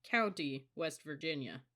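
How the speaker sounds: "County, West Virginia" with each syllable stressed; every syllable emphasized. A narrator's reading. Recruit correcting his senior, every syllable of "County, West Virginia" emphasized. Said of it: "He emphasized every syllable".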